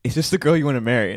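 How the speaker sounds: mock-serious deep self-talk; mirror pep talk. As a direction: coach yourself gravely, drawing the words out. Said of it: "the mirror Sean's like".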